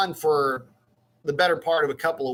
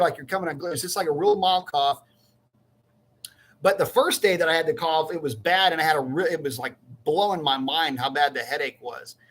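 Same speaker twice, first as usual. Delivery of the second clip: usual speaking voice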